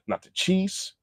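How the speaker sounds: ordinary talk, nothing marked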